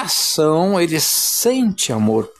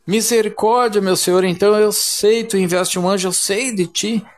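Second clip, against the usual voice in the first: pleading prayer; 3 semitones higher than usual. Retold or imitated. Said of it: "E vai em clamor".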